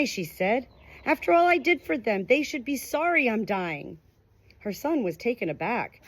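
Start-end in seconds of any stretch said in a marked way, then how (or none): 1.1-4.0 put-on a dying mother resenting her calm children, raised and indignant; bitter mother.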